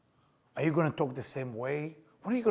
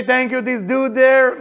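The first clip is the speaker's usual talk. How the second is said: slow, mocking thank-you; sarcastic thanks stretched out; 8 semitones higher, 13 dB louder, slower than usual. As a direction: ham up thanking some dude. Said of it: "Did he say".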